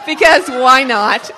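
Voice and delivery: loud, slow words pushed through real laughter; laughing. Real, not acted. Host about to embarrass Buddy, laughing out loud. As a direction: burst out laughing as you say it.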